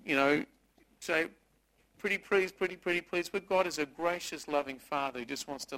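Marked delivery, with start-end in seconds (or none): 2.0-3.3 slightly raised, wheedling plea; mock begging. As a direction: act out cajoling someone. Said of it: "We don't have to beg God".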